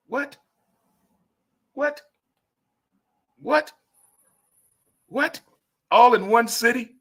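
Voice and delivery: overjoyed can't-believe-it squeals; stunned disbelief. Real, not acted. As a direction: shoot up in pitch in amazed disbelief. Disbelief at four games in a week.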